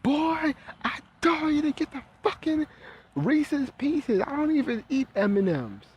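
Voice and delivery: hammed-up grandma cursing the boy out; shrill grandma voice cranked way up; imitating grandma. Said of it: "then the grandma would be like".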